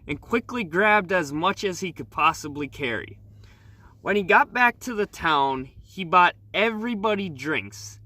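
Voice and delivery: lightly storytelling, read-aloud delivery; story narration. Acted. Vlogger reads viewers the legend of Fool's Gold, story narration. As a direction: read the legend like a campfire tale.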